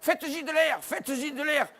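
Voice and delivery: high, fretting women's voices; women crowding the injured man, high and fretful; fussing women. Retold or imitated. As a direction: flap around him, fussing. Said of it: "elles disaient".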